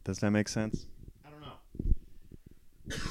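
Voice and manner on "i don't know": cracking voice. Real, not acted. Trailing off with voice cracking.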